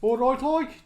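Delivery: Brummie accent. Shown as a demonstration. Asked for Brummie, tries a greeting, Brummie accent.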